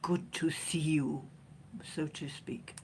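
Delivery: soft whispered aside; whispered greeting. Real, not acted. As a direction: whisper it like a private joke.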